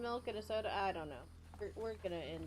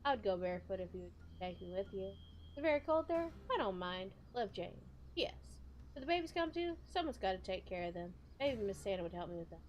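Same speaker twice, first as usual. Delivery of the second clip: lightly put-on rural Southern accent; country accent. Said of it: "I had to read it in the country accent".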